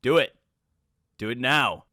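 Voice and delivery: pushy command. Acted. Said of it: "urging viewers".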